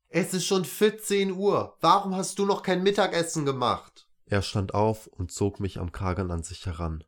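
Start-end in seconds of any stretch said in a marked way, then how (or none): 0.1-4.1 high, loud, furious yelling; angry bellowing. A narrator's reading. Father yelling at his child over lunch, angry bellowing. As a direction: roar it out in anger. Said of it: "begrüßte mich mit verärgertem Gebrüll".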